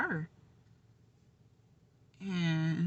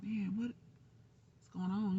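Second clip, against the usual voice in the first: whisper; 5 semitones higher, 6 dB quieter, much slower than usual. Retold or imitated. Retold night scare with daughter.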